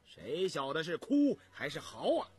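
retorting. Acted. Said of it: "一口顶了回来".

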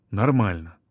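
mildly gruff, low mumble; grunted reply. A narrator's reading. Husband answering his wife about his health, grunted. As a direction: grunt it out grudgingly. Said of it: "буркнул он".

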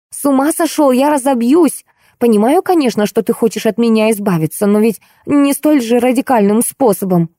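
high, squealing panicked protest. Acted. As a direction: squeal at your husband in alarm. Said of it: "заверещала Ольга".

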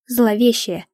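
plain reading voice

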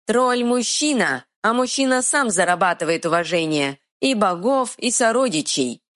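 stubborn dim-witted troll. Acted. Troll speaks.

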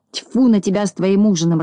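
understated cross outburst; mild acted irritation; mildly angry. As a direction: scold a friend with a touch of annoyance. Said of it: "рассердился Незнайка".

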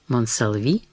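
a soft, frightened breath of a name; whispered name. A narrator's reading. Countess murmuring the feared name in quiet fright. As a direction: let the name slip out barely voiced. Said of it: "Графиня прошептала это имя".

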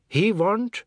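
high, amused splutter; choking with laughter. A narrator's reading. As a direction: start it high, as if holding back laughter. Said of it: "choking with laughter".

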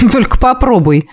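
lightly amused warning; with a smirk. A narrator's reading. Dark mage answers her offer of repayment, with a smirk. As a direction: dare them with a faint chuckle. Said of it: "усмехнулся он".

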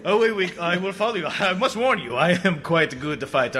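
put-on swashbuckling Spanish-accented hero, proud. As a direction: play a boastful Spanish swordsman. Guillermo speaks in Spanish accent.

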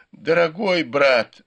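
whimpering. A narrator's reading. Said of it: "захныкал Сюэпань".

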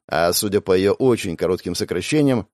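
ordinary talk

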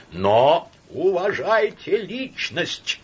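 high, loud, slow, every word hammered; hysterical insistence. Acted. Laevsky cutting off Samoylenko, hysterical. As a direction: drag out each word in fury.

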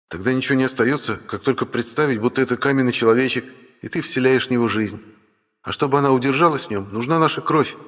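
dragon brother. Acted. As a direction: work out the plan as the brother.

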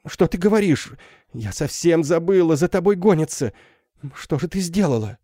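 high, frightened questions; suddenly remember the danger; alarmed mother. Acted. (испуганная мать, высоко)

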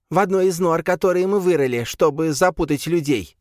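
high squeaky creature voice. A narrator's reading. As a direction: squeak it out timidly. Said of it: "пропищал он".

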